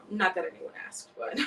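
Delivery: chuckling self-aware aside; laughing aside. Real, not acted.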